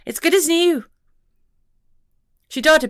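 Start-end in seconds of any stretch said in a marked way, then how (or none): 0.1-0.8 high pixie voice, annoyed; tiny creature huffing at the fuss. A narrator's reading. Pixie to the detective, annoyed, in a high voice.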